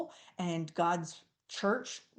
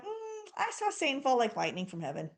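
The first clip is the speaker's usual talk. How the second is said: weird detached reply; 4 semitones higher than usual. Retold or imitated. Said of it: "how weird would it be".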